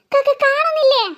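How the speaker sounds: stuttered, disbelieving question; nervous stuttering start; frightened stammer. Acted. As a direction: trip on the first sound in fear. Scared girl stammers at mother.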